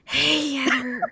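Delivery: hammed-up drunk greeting; loud first hail, then sagging drunkenly; super drunk. Drunk friend hailing Heather, playfully slurred. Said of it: "real good for sounding super drunk".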